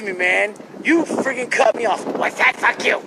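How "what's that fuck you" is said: a raised, snappy mock jerk; lightly hammed-up rude guy. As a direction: toss it off like a belligerent stranger. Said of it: "In that voice, though".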